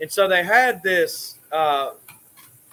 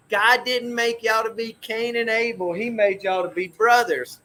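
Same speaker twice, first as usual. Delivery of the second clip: higher, lightly voiced mother; imitating mom; 4 semitones higher than usual. Mother to her fighting sons, light mom voice.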